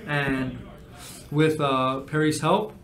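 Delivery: measured game master narration; scene narration. Acted. Game master describing a journey to players, measured narration. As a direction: set the scene with deliberate pauses.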